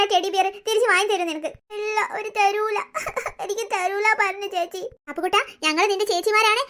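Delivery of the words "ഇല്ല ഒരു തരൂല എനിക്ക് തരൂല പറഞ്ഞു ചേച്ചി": slow sobbing. Acted. Boy sobs about refusal.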